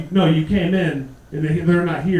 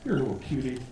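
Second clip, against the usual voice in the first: lower, soft cooing; mock doting dad; 6 semitones lower, 6 dB quieter than usual. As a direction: coo at the kids, softly. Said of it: "I'm like".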